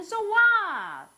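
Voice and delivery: loud, slow drawn-out so what; defiant so what. Shown as a demonstration. Preacher shows how to dismiss troubles, loud and slow. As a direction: shrug it off loudly. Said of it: "상황과 나는".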